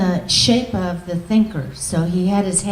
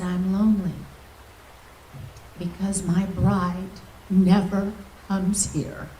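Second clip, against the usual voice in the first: lightly voiced lonely Lord; sorrowful; 7 dB quieter than usual. Yeshua answers, sobbing story.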